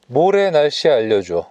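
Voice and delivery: slow, clear question to the car; slow, careful spoken command; talking to voice assistant. Real, not acted.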